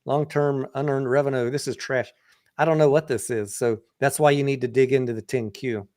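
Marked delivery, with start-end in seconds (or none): 0.1-2.1 mock disgusted reaction. Analyst mimicking a snap verdict on the balance sheet, mock disgusted. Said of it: "Instead of just telling you".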